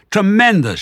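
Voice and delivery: high, loud whoop of approval; jubilant shout. A narrator's reading. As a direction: bellow it with delight. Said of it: "shouted Badger".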